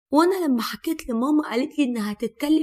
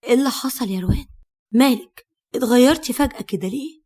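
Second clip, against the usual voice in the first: puzzled questions, fast, rising to a loud "مالك؟"; quick and taken aback, getting louder; surprised; 5 dB louder than usual. Acted. Husband asking upset wife what happened, surprised and loud. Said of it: "قلت لها باستغراب".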